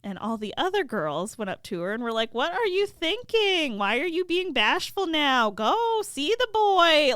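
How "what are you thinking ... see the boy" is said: high, rising-energy peer pressure; high and insistent, loud on the last push; exasperated girlfriends. Acted. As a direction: goad a bashful friend, mock disbelief. Girls goad their bashful friend.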